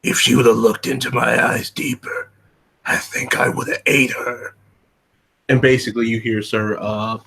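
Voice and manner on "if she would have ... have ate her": gravelly menacing voice; low rasping threat; low gravel vigilante growl. Acted. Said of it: "one individual with this gravelly voice".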